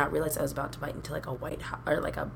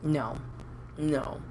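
whispered refusal; 2 semitones lower, 6 dB quieter than usual. Real, not acted.

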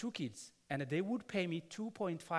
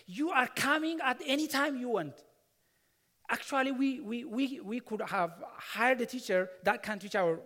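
mild mock scolding, raised and louder; retold angry scolding; 3 semitones higher, 3 dB louder than usual. A pastor retelling how the mother scolded him, mildly raised. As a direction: replay the rich mother's scolding, half-acted. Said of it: "she started yelling at me".

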